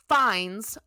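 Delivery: "finds" with audible air quotes; quote marks. Real, not acted. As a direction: put a knowing stress on "finds". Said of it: "She did quote marks when she said finds".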